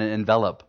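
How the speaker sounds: "envelope" stressed on the middle syllable; misplaced stress. Shown as a demonstration. Preacher joking about the word he is using, misplaced stress. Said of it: "I put the emphasis on the wrong syllable".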